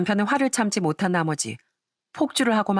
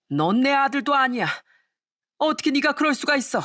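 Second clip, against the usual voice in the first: a father furious at his son's cruelty, voice pitched up; angry father scolding; 3 semitones higher than usual. Acted. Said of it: "또 화를 내셨어요".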